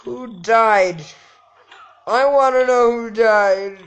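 hammed-up loud demand. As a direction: shout the question. Demanding in game.

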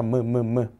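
무 as a plain voiced m; low, demonstrative 무, keeping the m; unchanged M sound. Shown as a demonstration. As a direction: sound out 무, 무, 무 separately. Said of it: "그 발음을 잃지 않아요".

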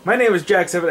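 half-hearted impression of a chirpy Irish intro; Jack impression attempt. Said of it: "I can't do Jack's voice".

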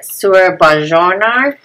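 Surabajornar sounded out slowly, unsure Swedish vowels; fumbled foreign word. Real, not acted. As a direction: hesitantly read Surabajornar. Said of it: "I can't even say it".

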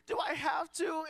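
mock whimper. Pastor retelling his pouty Friday, mock crying whine. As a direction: whimper it like you want to cry. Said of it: "And it's like".

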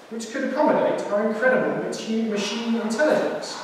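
a know-it-all fridge explaining itself; lightly voiced posh fridge. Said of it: "it's also got a rich accent".

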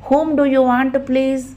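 mask her own voice on the phone; disguised voice. Acted. Smitha disguises her voice answering the phone. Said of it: "గొంతు మార్చి అన్నది స్మిత".

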